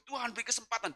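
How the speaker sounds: soft, mildly plaintive prayer; imitated tearful plea. Wife in the car prays for husband, mildly tearful. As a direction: plead quietly, a touch tearful. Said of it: "dia nangis".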